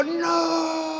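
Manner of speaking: a short high shouted no; mock sharp refusal. The father refusing his son, mock shouted no. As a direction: shut him down at once. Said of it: "el padre dijo".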